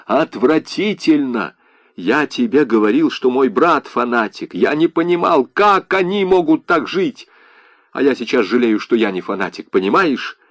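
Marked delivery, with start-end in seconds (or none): none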